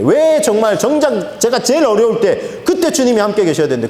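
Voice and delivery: 주님께 서운해 따지듯, 가볍게; 억울한 듯 항의하는 말투, 절제되게; upset complaint. Retold or imitated. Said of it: "주님께 화가 나가지고". (꿈속 사람이 주님께 화가 나 따지듯)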